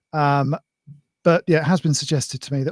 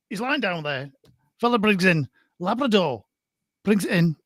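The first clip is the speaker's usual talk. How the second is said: Blackpool bingo caller. Pretend. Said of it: "go all Blackpool bingo caller for this".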